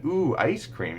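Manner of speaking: put-on high, pleased child-directed voice; playful parentese; delighted ooh. Shown as a demonstration. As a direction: sound thrilled about ice cream. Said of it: "Or even".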